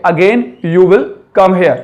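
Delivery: each word drawn out slowly; very slow demo. Shown as a demonstration. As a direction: model it slowly for students. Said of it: "teacher models the sentence". (बहुत धीरे समझाते हुए)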